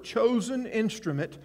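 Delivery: chosen leaned on with a falling tune; stress on chosen. Shown as a demonstration. Preacher pointing the congregation to chosen, stressed. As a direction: underline the word chosen with your voice. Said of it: "you might want to underline that word".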